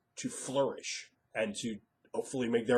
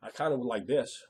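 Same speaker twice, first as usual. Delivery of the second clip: softer, hesitant mock-timid ask; sheepish, timid; 6 dB quieter than usual. Player timidly asking the GM for a little something, sheepish. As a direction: shrink back and ask for a small favour. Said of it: "they're all sheepishly, timidly go".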